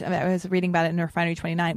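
words through a burp; talking while burping. Real, not acted. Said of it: "Will you stop burping for two seconds?".

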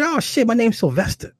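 very high, hurried-to-please answer; flustered. Retold or imitated. Man giving rough woman his name, flustered high answer. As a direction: blurt it in a mock flustered high voice.

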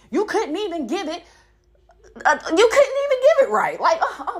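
laughing disbelief. Real, not acted. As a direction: crack up at how bad it was. Laughing at his failure.

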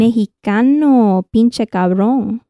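slow Mexican mexicano, pinche cabrón; slow mock Mexican swagger; Mexican accent. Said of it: "a Mexican accent?".

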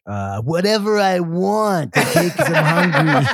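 mock French voice dissolving into laughs; laughing through it. Shown as a demonstration. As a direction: laugh as the French act cracks. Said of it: "doing the French voice".

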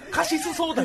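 カシスソーダ high, with full "shi" and "su"; hammed-up Osakan カシスソーダ, laughing; every vowel voiced. Shown as a demonstration. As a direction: overdo each vowel in カシスソーダ, Osaka-style. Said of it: "全部発音しちゃうんですよね".

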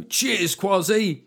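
lightly voiced cheery punter. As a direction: play a grateful tabloid reader. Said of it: "right-wing press".

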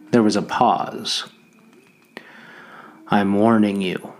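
measured dramatic reading of a novel; story narration. A narrator's reading. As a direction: read it like an audiobook, letting the tempter's lines coil. Reads novel aloud with voiced characters.

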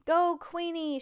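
high, loud rooting for a racer; excited storybook shout; shouted cheer. A narrator's reading. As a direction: shout your favorite on. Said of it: "shouted Jessica".

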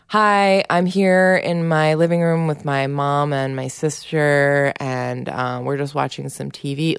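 lifted greeting, then easy presenting; lightly voiced YouTube host welcoming viewers; imitating vlogger speak. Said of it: "vlogger speak".

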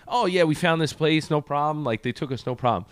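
acted-out easygoing assurance; breezy reassurance. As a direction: imitate someone waving away a worry. Acted breezy reply of skydive organizers.

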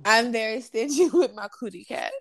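put-on a light Puerto Rican accent, laughing through it; half-hearted Puerto Rican accent, breaking into giggles; attempted Puerto Rican accent. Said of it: "I was gonna try to do the accent".

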